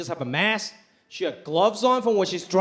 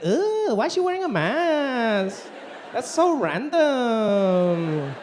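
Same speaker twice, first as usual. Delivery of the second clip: mock valley girl scorn; much slower than usual. Comic mimicking judgy passersby, mock disdain. Mocking people judging the mask.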